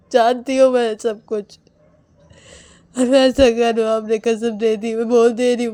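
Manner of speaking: loud, fierce warning to the family; an enraged wife warning everyone; furious threat. Acted. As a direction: threaten them, nearly shouting. Woman threatens family over Rahul.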